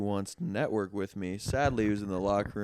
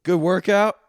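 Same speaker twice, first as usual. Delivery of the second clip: put-on chipper old man; 8 semitones higher, 11 dB louder than usual. Old man in locker room greets.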